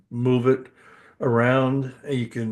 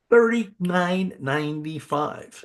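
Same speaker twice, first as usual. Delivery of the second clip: game show host; 6 semitones higher, slower than usual. Acted. Repeats the game show price.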